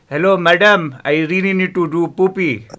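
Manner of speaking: put-on high little kid begging; childish pleading voice. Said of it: "And I'm like".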